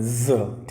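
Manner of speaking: ज said as a buzzing z, not s; z sound demo. Shown as a demonstration. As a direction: voice the ज like the z in zero. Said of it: "तो आपको ज पढ़ना है".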